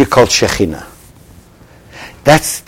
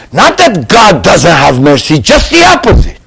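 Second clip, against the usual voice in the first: emphatic shout. Real, not acted. Preacher shouting to his congregation about God's mercy. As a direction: proclaim it like a revelation.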